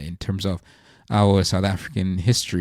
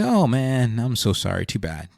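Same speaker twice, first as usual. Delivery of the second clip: lightly acted, token pity; passive sympathy. Speaker voicing someone who only feels sorry, mild mock sympathy. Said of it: "You just feel sorry for them".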